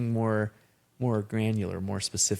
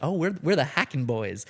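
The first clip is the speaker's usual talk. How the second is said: mock West Texas twang; 5 semitones higher than usual. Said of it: "'cause I kept saying it".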